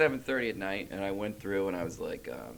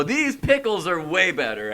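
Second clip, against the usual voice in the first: mock impressed; 5 semitones higher than usual. Acted snooping in ex's fridge.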